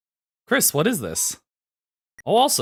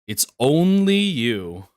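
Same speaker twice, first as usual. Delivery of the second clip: slow dramatic; 3 semitones lower, slower than usual. Acted.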